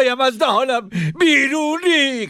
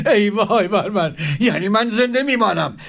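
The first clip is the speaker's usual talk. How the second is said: despairing lament. Acted. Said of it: "با افسوس گفت".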